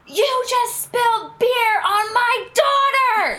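shrill high screaming mom, slowed; high outraged mock scream.

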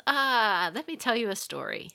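a hint of an old teacher starting a tale; storytelling old man. Old man begins telling a fable.

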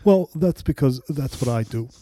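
deadpan Mamet-style delivery; a lightly voiced Mamet line. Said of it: "It's so good".

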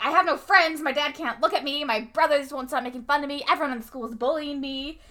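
3 blurt out every grievance, rushing at the end; 4 Eddie unloading to his cooking teacher, upset outburst. Retold or imitated. Eddie venting to Missus Hadley.

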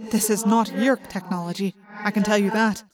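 measured words with reverb; solemn reverberating alien; echoing alien voice. Acted. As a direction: speak evenly, thoughts ringing in the head. Ax's alien voice with echo.

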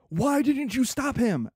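slightly exasperated, drawn-out question; upset brother. Acted. Brother confronting the uncle over the burn, mildly acted exasperation. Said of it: "what words come out of my brother's mouth".

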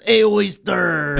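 high, drawn-out mocking imitation; Miguel. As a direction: stretch it out in a teasing put-on voice. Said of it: "we make fun of Miguel".

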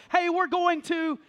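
a slow drawn-out call down the hall, lightly voiced; calling friends as if down a dorm hallway; mock hallway yell. Student calling down the hallway, slow drawn-out mock yell. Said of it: "we would just yell down the hallway".

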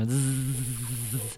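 steady buzzing drone noise; imitated drone buzz. Shown as a demonstration. Co-host showing friends the drone trick, imitated buzz. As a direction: buzz like a little flying drone. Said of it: "It'd be more like doing the drone".

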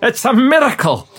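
awed exclamation. Shown as a demonstration. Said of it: "you say your last line again".

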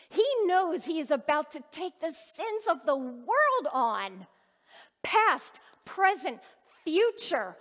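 rising preacher's fervor; fervent preaching. Acted. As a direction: drive the point home to the congregation. Preaches about Jesus' sacrifice.

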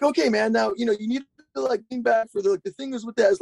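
high, voice-cracking Yoda-like coaching voice; Roddy Mullen Yoda voice. Retold or imitated. Roddy Mullen coaching the speaker over speakerphone, high cracking Yoda voice. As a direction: do Roddy as a squeaky cracking Yoda, all tech. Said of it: "he starts getting all kinesiology".

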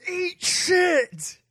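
high-pitched mock yell; imitated wrestler's yell. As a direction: holler it like a wrestler mid-match. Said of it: "I do love Juice's yell of".

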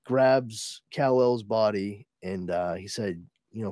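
ordinary delivery

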